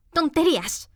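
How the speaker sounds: high, firm, loud dismissal; loud and decided. A narrator's reading. Alice defiantly silencing the raging queen. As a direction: shut her down boldly. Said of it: "en voz muy alta y decidida".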